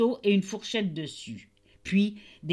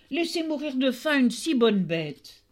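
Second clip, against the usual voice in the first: angry tailor; 5 semitones higher than usual. Acted. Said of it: "s'écria le tailleur".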